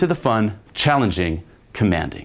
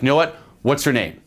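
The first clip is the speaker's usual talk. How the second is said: commanding; 6 semitones higher than usual. Shown as a demonstration. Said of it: "The third one is commanding".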